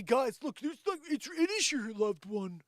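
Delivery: high, pushy sales voice; salesy pitch. Retold or imitated. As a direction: oversell it like a huckster.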